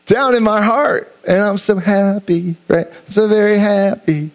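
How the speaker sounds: joyful. Shown as a demonstration. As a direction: sing out the joy from the heart.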